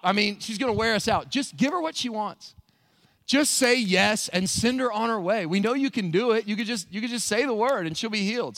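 acted fed-up appeal, pushing hard; begging disciples. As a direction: plead to be rid of a nuisance. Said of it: "The disciples came and begged him".

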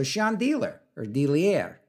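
The title misread as "shahn-DEE-ler", then "Delier"; puzzled mispronunciation. Real, not acted. DJ guessing at a title, mispronounced as "shahn-deeler". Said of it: "I get it now".

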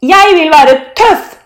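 high, loud and drawn out; defiant shout. A narrator's reading. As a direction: insist at the top of your voice. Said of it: "roper Thor". (trassig, høyt rop)

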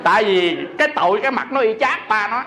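laughing. Real, not acted. Monk laughing to the audience as he retells her confession. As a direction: laugh along while telling the mother's story.

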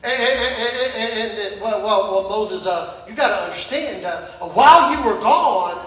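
put-on squirm through it like a caught kid; sheepish excuse. Man left in charge stammering excuses to Moses, sheepish mumble.

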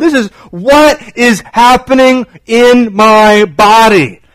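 slow, high, pleading cry; crying out to God. Retold or imitated. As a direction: plead slowly like a woman in distress. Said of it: "She cries out to the Lord".

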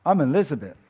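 little princess answering back to her nanny; bratty little girl. Retold or imitated. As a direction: toss it off like a sulky child. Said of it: "Elizabeth said".

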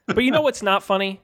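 earnest public service voice; PSA announcer. Pretend. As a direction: sell it like a charity ad. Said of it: "Can we do, like, a P S A?".

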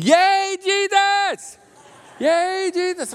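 put-on high, loud child cheering; excited little girl. Pastor imitating a preschool girl waving a palm branch, high excited cheer. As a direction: cheer like a thrilled little kid. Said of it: "The little girl ... going".

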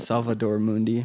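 flat American "Salvador Mundi", no rolled sounds; American accent. Shown as a demonstration. Host retries the painting name, plain American accent. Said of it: "how to do that in an American accent".

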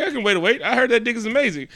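high, quickening imitation of Peggy; mock eager woman. Peggy happy to wait for him, mock eager high voice.

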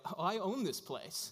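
"Oh, I own this place" said slowly through a laugh. Retold or imitated. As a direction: chuckle it out as the owner. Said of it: "And Jason kinda laughs a little bit".

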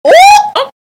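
high loud delighted ooh; surprised ooh. Real, not acted. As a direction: react like you just heard gossip. Host reacts to God made me write.

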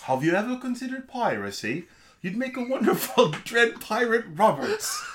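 put-on laughing Cockney accent; lightly voiced Cockney pirate. Host offering piracy to Inigo in a Cockney accent, laughing. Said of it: "I went full on Cockney".

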